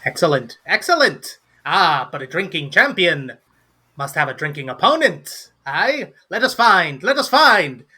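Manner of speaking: theatrical gnome voice, leaping high on repeats; excited gnome. Acted. Gnome announcing a hunt for a drinking opponent, excited high voice. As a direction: build to high, eager cries.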